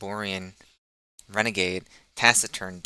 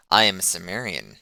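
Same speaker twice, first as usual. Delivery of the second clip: unfriendly; 6 dB louder than usual. Acted. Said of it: "in no friendly tone".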